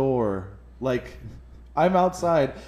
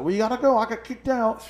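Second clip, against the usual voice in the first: much higher, whiny shouted complaint; mock yelling; 10 semitones higher, faster than usual. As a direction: yell it out to his friends like he can't believe it. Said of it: "yelling at his friends".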